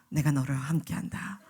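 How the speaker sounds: low whispered divine reply; voice of God. Acted. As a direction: answer gently as God. (하나님의 낮은 속삭임)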